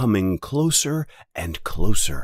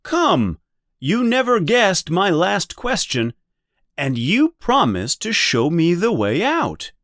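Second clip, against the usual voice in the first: higher, louder impatient demand; annoyed; 10 semitones higher, 3 dB louder than usual. A narrator's reading. Annoyed Bilbo demanding Gollum show the way out. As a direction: push him, fed up. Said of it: "annoyed at the delay".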